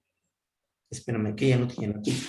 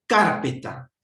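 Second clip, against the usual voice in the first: "carpeta" said louder, stress on PE; stress demo; 3 semitones higher, 4 dB louder, slower than usual. Shown as a demonstration. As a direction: test the word by stressing "carpeta" on PE. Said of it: "Y tú dices".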